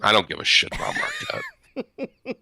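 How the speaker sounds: slow, drawn-out shout on Marquette; fed-up shout. Real, not acted. Shouting to his co-hosts that he doesn't care about Marquette, slow emphatic yell. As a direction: bellow it to shut down the Marquette question. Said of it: "Good save".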